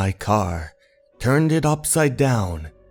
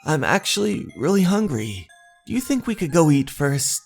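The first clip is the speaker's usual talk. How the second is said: higher-pitched, quick apologetic character; hesitant request; 6 semitones higher, faster than usual. Acted. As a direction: politely ask to go and eat first, voice lifted. Story character making a nervous request.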